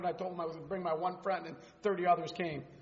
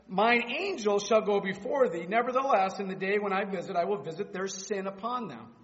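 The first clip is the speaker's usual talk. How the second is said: scripture reading. Acted. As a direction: read God's words with authority.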